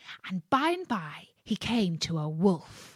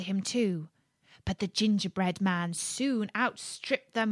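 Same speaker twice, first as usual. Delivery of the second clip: put-on gentle read-aloud to children; lightly paced fairy tale reading; storybook narration. A narrator's reading. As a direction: tell it like a bedtime tale.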